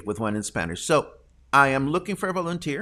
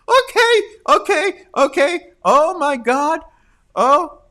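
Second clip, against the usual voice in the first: giddy; 13 semitones higher, 9 dB louder than usual. Real, not acted. Host trying to recover from laughter, giddy and loud. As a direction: squeal it, still half laughing.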